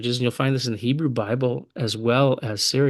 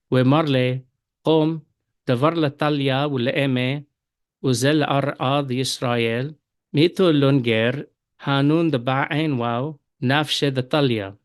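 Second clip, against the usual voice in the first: verse twenty read in Eastern Syriac, talya with a; Eastern Syriac accent. Shown as a demonstration. Teacher reads verse twenty to students in Eastern Syriac accent. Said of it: "And now in the Eastern accent".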